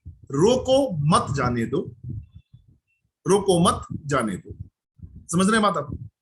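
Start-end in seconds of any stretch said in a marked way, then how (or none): 0.1-1.9 "रोको मत जाने दो" drawn out, no clear comma; phrase run together slowly. Shown as a demonstration. Speaker poses a word puzzle to the meeting, slow deliberate phrasing. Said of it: "अंतर दोनों के अलग है". 3.3-4.7 "रोको मत जाने दो" said slowly, falling at the end; slow puzzle phrase. Shown as a demonstration. Speaker repeats the puzzle for listeners, slow deliberate phrasing. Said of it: "अंतर दोनों के अलग है".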